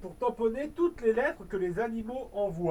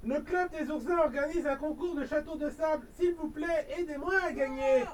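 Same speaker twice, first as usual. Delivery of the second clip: pleading hedgehog; 4 semitones higher, 3 dB quieter than usual. Acted. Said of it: "l'air suppliant".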